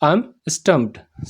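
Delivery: very slow and deliberate; slow model sentence. Shown as a demonstration. Teacher slowly modelling the English for students. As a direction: lay out every word for the class. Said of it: "इसका English क्या होता है".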